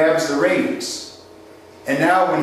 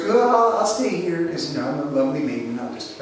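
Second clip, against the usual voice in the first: lightly voiced maiden, breathy trailing off into softness; playing the dainty lady, fading out; lovely maiden; 3 dB quieter than usual. Salesman acting out the girl in the stagecoach, mock coy. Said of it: "the girl goes".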